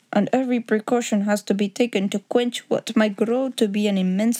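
lightly voiced formal Bohemian count; a hint of a Bohemian nobleman's accent. Count laying terms before Holmes, lightly accented and formal.

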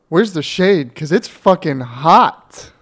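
drawn-out sarcastic complaint. Pretend. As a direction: play at being outdoors, slow and sarcastic. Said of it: "you sound so sarcastic".

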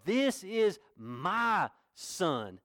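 very slow, proud proclamation from heaven; booming proclamation. Acted. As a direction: proclaim it like God calling from the opened heavens. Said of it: "he yelled, he proclaimed".

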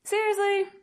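drawn-out groan climbing to high disbelief; mock frustrated. Beginner retelling her failed serves, mock frustrated whine. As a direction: drag out the plea, then pitch the questions up high. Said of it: "So I'm getting frustrated".

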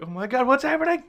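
mock panic. Retelling the movie as he starts panicking, high mock panic. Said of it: "oh, he starts panicking".

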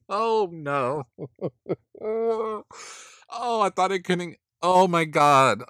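high-pitched, helpless laughing reaction; real laughing fit, voice way up; cracking up. Real, not acted. Cracking up at the contestant's look.

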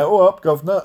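lightly hammed-up London cliché accent; mock London accent. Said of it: "they go to London".

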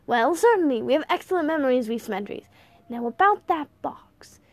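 put-on a touch of eccentric old-man confidence; lightly voiced breezy grandfather.

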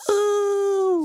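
high, loud cheer on the drop; excited woo. Retold or imitated. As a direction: whoop like a thrilled kid on a coaster. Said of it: "Matt's like".

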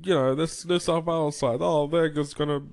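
lightly mocking biased commentator; commentator impression. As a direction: parody a smug sports commentator. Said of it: "those commentators are just like".

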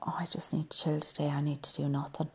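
quick hushed self-talk; soft quick whisper. Retold or imitated. Quoting tired self, quick.

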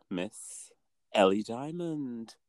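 put-on lightly leaning into a Scottish accent; slow, hint of put-on Scottish accent; attempted Scottish accent. Podcast host introduces the next queen, in a tentative Scottish accent. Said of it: "Was that your Scottish accent?".

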